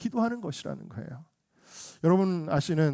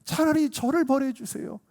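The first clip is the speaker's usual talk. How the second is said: high-pitched plea to a judge; acted parental entreaty; parent crying out; 7 semitones higher than usual. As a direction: beg as a desperate parent would. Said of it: "그 부모가 외치는 거예요".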